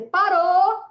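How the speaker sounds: sharp, loud, high cry to stop; commanding shout. Retold or imitated. To the nursing staff scolding the girl, a sharp commanding shout. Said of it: "aí eu falei".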